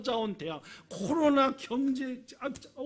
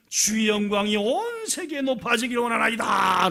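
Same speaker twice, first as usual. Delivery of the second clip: acted exalting prayer, swelling at the end; fervent prayer; 4 semitones higher than usual. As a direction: proclaim praise to God with fervour. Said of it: "갑자기 기도가 바뀝니다". (힘있게 올려 드리는 찬양의 기도)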